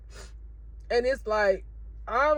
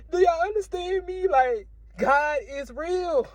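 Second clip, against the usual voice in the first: higher, slow emphatic call; slow, raised appeal; fervent preaching; 6 semitones higher than usual. Real, not acted. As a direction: preach it out to the viewers. Preaching to viewers.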